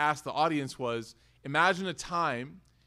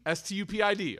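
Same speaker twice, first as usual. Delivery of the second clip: spelled out; faster than usual. Acted. Preacher spelling a rude word because kids are present, letter by letter. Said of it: "There's kids here".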